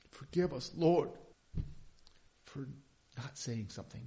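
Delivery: a pained plea to God; sighing prayer. Real, not acted. Pastor turning to pray mid-sermon, sighing.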